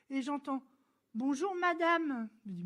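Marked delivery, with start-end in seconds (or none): 1.1-2.3 slow, knowing "Bonjour, madame" with a rise on Bonjour; drawn-out "Bonjour, madame", each word lingered on; pointed greeting. Retold or imitated. Stranger at the pharmacy greeting her, slow and meaningful. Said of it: "Mais pourquoi il me parle comme ça?".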